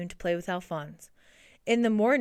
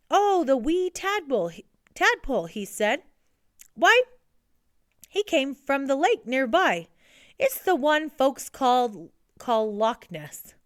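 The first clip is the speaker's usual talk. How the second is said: a hint of an uncle, pitched higher; uncle character voice; 5 semitones higher, 4 dB louder than usual. A narrator's reading. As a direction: lightly voice an uncle recalling a find. Uncle McAllister's voice on phone.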